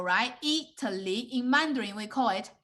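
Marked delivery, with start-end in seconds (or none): 0.4-1.3 Italy in three distinct beats; teacher breaking Italy into I-ta-ly; syllable by syllable. Shown as a demonstration. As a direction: sound out each syllable of Italy. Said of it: "break down of each syllable, emphasize it".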